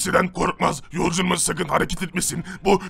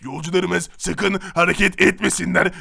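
siren announcement. Acted. Siren head repeating announcements.

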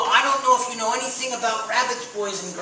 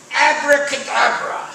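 magic word; 3 semitones higher, 5 dB louder than usual. Shown as a demonstration. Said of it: "wiggle your fingers and say".

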